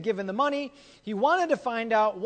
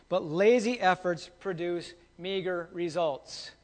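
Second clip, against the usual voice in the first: slow maxim; 2 semitones lower, slower than usual. Shown as a demonstration. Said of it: "remember this".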